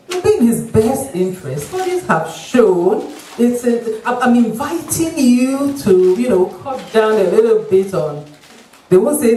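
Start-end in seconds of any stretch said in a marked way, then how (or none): 0.1-8.2 a hint of a tactful doctor, slowed right down; polite doctor. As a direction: drag it out as a gentle hint. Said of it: "That's how they speak".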